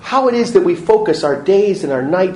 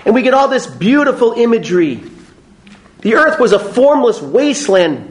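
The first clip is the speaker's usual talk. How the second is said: ordinary talk, nothing marked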